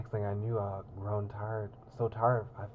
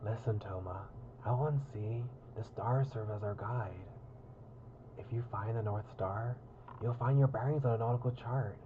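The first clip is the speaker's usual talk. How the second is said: put-on gruff pirate accent; hammed-up pirate captain. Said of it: "wait, I was doing a pirate accent".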